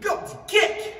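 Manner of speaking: high, loud karate yell; kiai shout. Shown as a demonstration. Karate teacher shouting the kick call for students, loud. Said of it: "tu vas devoir dire kick".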